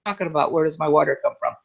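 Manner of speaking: low, puzzled echo of the question; weirded out. Retold or imitated. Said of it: "I kinda look at them weird".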